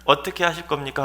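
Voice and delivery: high, urgent question to God; insistent appeal. Acted. Imagined Abraham bargaining down to six, high insistent appeal. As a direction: press the case further. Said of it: "거기까지 물어봐야 되지 않겠습니까".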